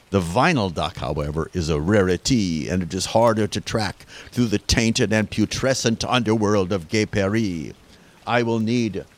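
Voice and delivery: put-on hammy French detective accent.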